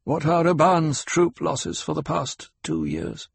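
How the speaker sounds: Hawat, sharp and knowing. Acted. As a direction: lay out the facts to corner him. Hawat's probing question.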